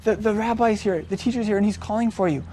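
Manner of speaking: softly voiced private message; discreet aside. Sister takes Miriam aside with news, quiet and discreet. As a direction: tell her quietly, as if taken aside. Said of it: "took her aside and said".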